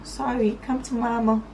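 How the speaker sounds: slow, drawn-out soothing coo; mock tender cooing. Vlogger retells comforting the crying boyfriend, mock tender coo.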